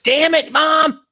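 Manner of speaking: put-on high kid yell; yelling damn it as a kid; frustrated kid yell. Retold kid outburst.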